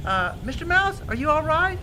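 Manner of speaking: high mouse voice; concerned Ben Mouse. Acted.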